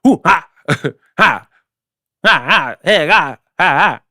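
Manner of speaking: punchy rapper ad-lib bursts; mock hip-hop "hoo-ha" exclamations; a rapper. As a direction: throw out short, explosive hype shouts in jest. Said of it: "Like a rapper".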